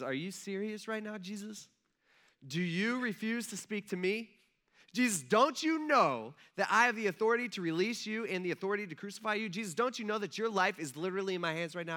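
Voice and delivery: high-pitched, incredulous challenge; acted indignation. Pilate questioning his silent prisoner, indignant. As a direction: build from hushed disbelief to insistent demand.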